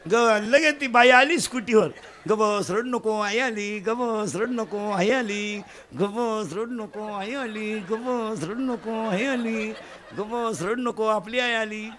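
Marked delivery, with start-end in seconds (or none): 2.3-11.9 put-on soothing a baby. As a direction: lull the child as mother arrives. Shankar soothing baby, mother back.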